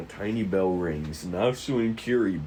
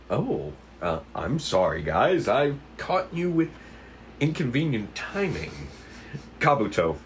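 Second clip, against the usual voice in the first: lightly voiced sheepish detective; apologetic detective. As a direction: apologize with embarrassed politeness. Kiri apologizes.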